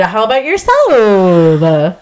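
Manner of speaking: slow creaky vocal fry. Acted. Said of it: "my pizza name will talk like that".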